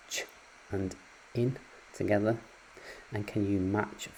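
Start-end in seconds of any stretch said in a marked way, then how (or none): 0.1-0.2 just the ch sound on its own; isolated ch sound. Shown as a demonstration. Teacher sounding out the ch phoneme for pupils. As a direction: sound out the ch alone. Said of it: "so what happens if we put".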